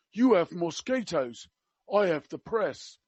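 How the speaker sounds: slow, lightly put-on Cockney; measured delivery with a hint of mock Cockney; attempted Cockney. Quoting the prince to a hospital worker, in attempted Cockney. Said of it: "I can't do Cockney. I will try my best".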